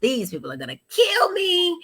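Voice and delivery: a hammed-up wail of dread; half-joking panicked shout at herself; mock panic. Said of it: "and I thought".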